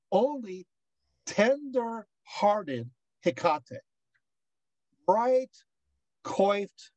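slow, drawn-out solemn reading; hymn recitation. Acted. Lecturer savoring a favorite portion of the hymn, slow recitation. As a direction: linger on each phrase, with pauses between.

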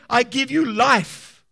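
loud prophetic blessing spoken over a seed; prophesying over the seed. Acted. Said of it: "Speak and say".

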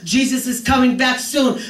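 ringing preacher shout; proclaiming. Acted. Preacher proclaiming Christ's return, shouted. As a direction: proclaim it to the church. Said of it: "I wanna be that voice".

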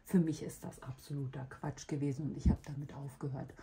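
sick voice giving out mid-sentence. Real, not acted. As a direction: voice failing, dropping to a whisper. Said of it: "meine Stimme versagt".

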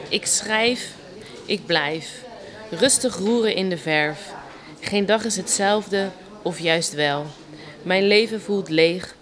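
measured poem recital in short phrases; understated spoken poetry; poem reading. Acted. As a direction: recite your poem with a pause after each line. Recites her own poem.

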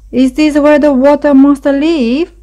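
high, nervous little voice; small and frightened; scared trembling. A narrator's reading. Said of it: "whispered Little Gray Mouse, trembling".

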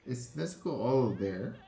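asking through tears; choked-up worried question; teary. Real, not acted. Tearful over Nezuko.

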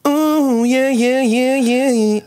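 very high pitched yeah; high squeaky voice. Real, not acted. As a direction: jump way up in pitch. Testing new audio setting.

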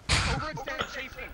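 high, loud, pushing order; urgent shout. Real, not acted. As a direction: yell it at the squad. Shot caller urging chase.

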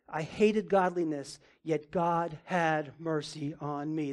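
put-on slow, earnest reading of the old testimony; solemn reading. Shown as a demonstration. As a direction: read it slowly, like a confession. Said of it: "Cromwell says this".

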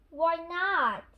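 hearty agreement. A narrator's reading. Grandpa Pig agrees to ice cream, hearty agreement. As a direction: agree heartily, lifting pitch and volume.

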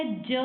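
ਜ as its bare sound, not the letter name; letter sound demo. Shown as a demonstration. Teacher showing children the sound of jajja, bare letter sound. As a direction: say just the sound ਜ. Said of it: "ਜੱਜੇ ਦੀ ਆਵਾਜ਼ ਕੀ ਹੈ".

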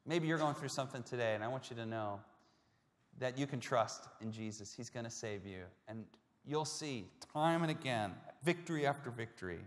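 soft, gentle pastoral reassurance; tender reassurance. Real, not acted. Pastor to a hurting listener, soft and reassuring. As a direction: comfort them quietly, sincerely.

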